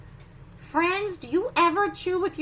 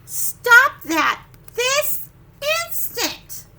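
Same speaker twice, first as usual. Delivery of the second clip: loud, high, slow stop that; slow shouted command; stern parent; 9 semitones higher, 8 dB louder, much slower than usual. Acted. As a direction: bark it like a mom losing patience. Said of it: "parent's scolding in the book".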